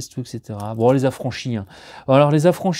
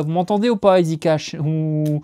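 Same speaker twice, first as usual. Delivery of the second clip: raised voice calling out to a shop chain; mock call-out; 4 semitones higher than usual. Real, not acted. Vlogger calls out to Easy Cash, raised mock scolding voice.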